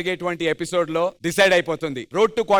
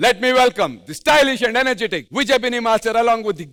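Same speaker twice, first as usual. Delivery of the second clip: show host announcement; 3 semitones higher, much slower than usual. Acted. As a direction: announce it like opening a big stage show. Host introduces the judges.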